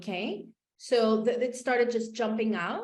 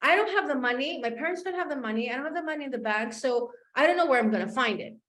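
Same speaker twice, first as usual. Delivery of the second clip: annoyed; 4 semitones higher, faster than usual. Retold or imitated. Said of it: "I got very annoyed with her and I'm like".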